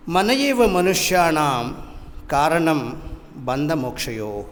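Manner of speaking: rapid chanted recitation of the Sanskrit verse; quick verse recitation. Shown as a demonstration. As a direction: rattle off the verse fast, chant-like. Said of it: "The meaning of this verse goes like this".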